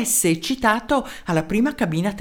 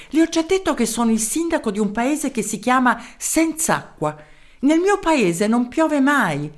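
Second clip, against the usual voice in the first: a higher, eager mayor's voice; 5 semitones higher than usual. Acted. Mayor introducing himself to the professor, eager. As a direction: introduce yourself keenly down the phone.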